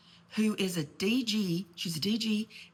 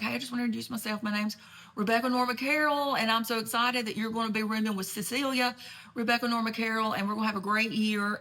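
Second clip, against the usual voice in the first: fast, higher cheerful introduction; sweet phone intro; 3 semitones higher than usual. Retold or imitated. Mother introducing herself on the phone to the new roommate, bubbly and higher. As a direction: gush like an eager new roommate's mom.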